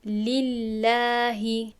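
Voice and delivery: لله with a thin light lam, mouth neutral; thin lam in Allah. Shown as a demonstration. Teacher showing لله with a thin lam. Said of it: "با ترقیق خواندم".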